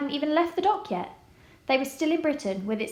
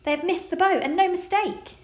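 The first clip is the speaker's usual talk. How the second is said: joking; 7 semitones higher than usual. A narrator's reading. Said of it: "enjoying her own joke".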